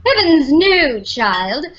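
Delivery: lightly voiced prim old lady; a hint of a haughty governess scolding a child; asked to do a line as her character Carla, a touch prim and haughty; Carla's cue line. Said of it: "say something as Carla".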